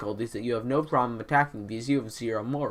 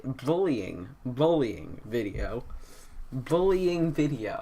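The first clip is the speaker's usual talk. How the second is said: numb from the dentist; much slower than usual. Real, not acted. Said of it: "I can't say".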